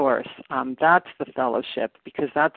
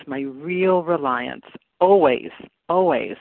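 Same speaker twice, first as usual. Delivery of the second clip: slow, leaning on real and always; my real reliance, always, always, each word weighed; stress on real; slower than usual. Shown as a demonstration. Sharing the reading, stressing real and always slowly. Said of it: "it adds the word real".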